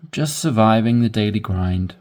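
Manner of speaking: glum, weary "just surviving the daily grind"; tired complaint; negative. Shown as a demonstration. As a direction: sound fed up. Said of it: "wanna sound like, Hmm, negative".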